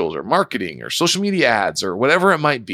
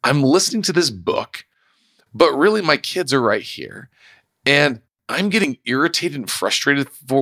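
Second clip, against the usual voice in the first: self-questioning realization; 4 semitones higher than usual. Retold or imitated. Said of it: "I realized".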